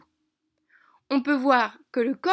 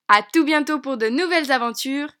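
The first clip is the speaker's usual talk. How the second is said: cheerful goodbye; 6 dB louder than usual. Real, not acted. Cheerful goodbye ending the lesson.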